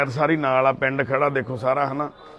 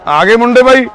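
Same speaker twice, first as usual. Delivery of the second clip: calls out higher and louder across the yard; hollering out to the arriving lads; 7 semitones higher, 13 dB louder than usual. Real, not acted. Worker calls out to the arriving young men, loud and high.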